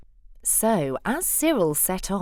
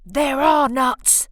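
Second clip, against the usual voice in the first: louder dismayed exclaim; 5 semitones higher, 6 dB louder than usual. Acted. Bruce exclaiming as the nuts fly away. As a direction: cry out in dismay. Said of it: "exclaimed Bruce".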